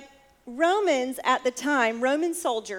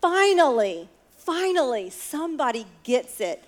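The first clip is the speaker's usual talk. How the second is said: joyful relief; 2 semitones higher, 5 dB louder than usual. Retold or imitated. Jesus to the crowd about the officer's faith, exultant joy. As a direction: burst out with delighted relief. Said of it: "He is filled with joy".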